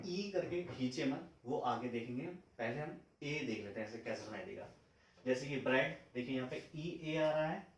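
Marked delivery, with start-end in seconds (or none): 5.6-6.0 short clipped e in ब्रेड; quick short e. Shown as a demonstration. Teacher contrasts short e for students. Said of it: "लेकिन मैं बोल जल्दी रहा हूँ".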